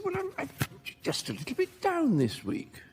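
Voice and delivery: a hint of an elderly mum's surprise; surprised mum. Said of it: "with a sort of sense of surprise".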